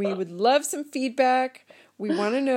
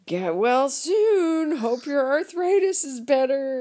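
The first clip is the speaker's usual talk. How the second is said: mock greeting card; 4 semitones higher, 3 dB louder, slower than usual. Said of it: "they're all just like".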